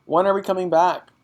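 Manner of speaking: put-on pleading child. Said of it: "Matilda cried".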